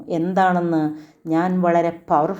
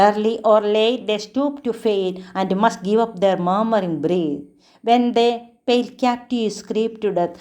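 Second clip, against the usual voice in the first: slow, measured reading of verse; poem recitation; much slower than usual. Shown as a demonstration. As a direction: recite each line slowly and deliberately. Teacher recites second stanza. (പതുക്കെ കവിത ചൊല്ലുന്ന ശൈലി)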